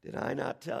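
tender. Retold or imitated. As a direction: gently put question. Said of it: "He's saying tenderly".

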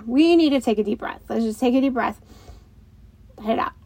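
coaching breath. Shown as a demonstration. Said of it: "take that moment".

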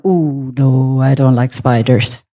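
low, slow uneasy reluctance; retold dismay. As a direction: draw out a low, wary refusal. Retold dismay at seeing spiders.

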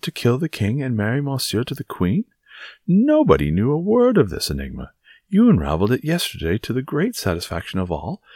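theatrical outrage with big pitch swings; blustering Porthos, indignant. Acted. Porthos protests to Aramis about the cardinal's spy, indignant. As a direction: rant in mounting disbelief.

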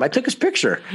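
high, giggling delivery of the punchline; laughing through it. Retold or imitated. Telling the driver what he did, laughing. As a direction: laugh as you confess the photo. Retelling his answer to the driver.

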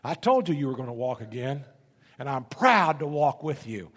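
lightly imitated booming announcement; a mild, proud boom over the microphone. Nurse surprising his old patient from behind the curtain, mildly booming. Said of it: "this big booming voice said".

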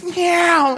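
high mock eagle cry; eagle screech. Preacher imitating the eagle stealing a fish, high screech.

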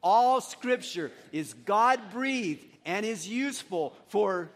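slow, punched scripture lead-in; coaching recitation. Real, not acted. Pastor coaching the church through the verse, slow emphatic recitation. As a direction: start the group off strongly, then drop out. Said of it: "I'll coach you on".

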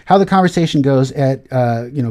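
normal talking voice

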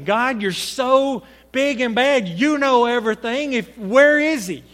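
sneering mock praise of God; defiant sarcasm. Preacher voicing Cain's defiant sarcasm toward God. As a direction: throw sarcasm back at God. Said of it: "That's the attitude he had toward God".

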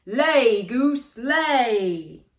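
loud shouted command. Shown as a demonstration. Storyteller shouting the giant's order with the children. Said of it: "Can you shout that".

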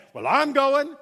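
dad overheard on the phone, loudly insisting he's going too; insistent dad. Retold or imitated. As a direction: announce you are coming, no arguing.

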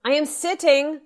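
loud, high shout at Dad; exasperated yell. Acted. Daughter yelling at Dad from the bathroom. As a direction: bark it through the door, fed up.

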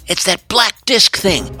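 high, urgent female character voice; frantic Amy. A narrator's reading. Amy points Lena to the keychain, high and frantic. Frantic explanation in getaway car.

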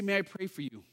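a quiet, caring offer to pray; gentle offer to pray. Shown as a demonstration. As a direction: ask it gently, no pressure. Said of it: "just simply say".

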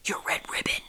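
soft whispered question. A narrator's reading. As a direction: whisper it into the phone. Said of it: "whispered Stacy".

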